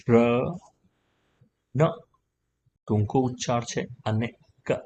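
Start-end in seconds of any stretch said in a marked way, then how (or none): 0.1-0.1 "ર" held as a full syllable; full sound. Shown as a demonstration. Teacher reads R-U for learners, full "ર". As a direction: sound out "ર" with its whole vowel. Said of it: "આર યુ આખું છે".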